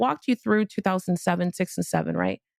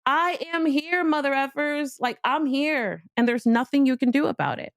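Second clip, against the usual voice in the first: defiant self-affirmation; 5 semitones higher than usual. Shown as a demonstration. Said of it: "I really want you to say this to yourself".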